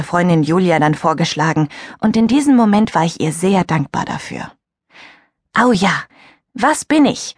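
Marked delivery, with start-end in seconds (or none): 5.5-7.3 put-on higher eager girl's call; a bright, eager cry of a girl at a party; excited call. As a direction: call it out keenly. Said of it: "rief Millie".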